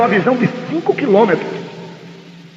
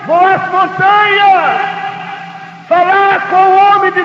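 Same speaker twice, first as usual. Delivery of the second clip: higher, slow shouted answer; shouted reply; 5 semitones higher, slower than usual. Acted. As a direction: shout back across the field. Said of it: "ela gritaram".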